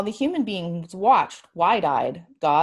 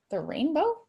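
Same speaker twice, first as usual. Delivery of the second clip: put-on small girl asking, higher; curious little girl voice; high child question; 7 semitones higher, 4 dB quieter than usual. Child asks in story.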